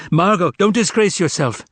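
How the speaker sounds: high, urgent plea; agonized scream. A narrator's reading. The master begging Margot to stop, screaming in agony. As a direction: cry out to stop her. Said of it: "screamed the master in agony".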